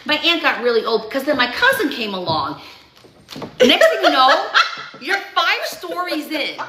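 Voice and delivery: breathless New Jersey chatterbox, wandering off topic; Rhonda impression. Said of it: "so this is me as Rhonda".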